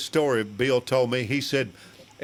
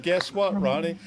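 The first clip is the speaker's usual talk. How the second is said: excited; 6 semitones higher than usual. Retold or imitated. Punchline of retold story.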